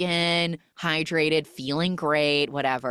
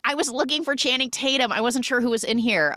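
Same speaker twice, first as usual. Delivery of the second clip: flustered excuse; 8 semitones higher, faster than usual. Retold or imitated. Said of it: "she's like".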